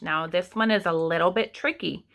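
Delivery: ordinary delivery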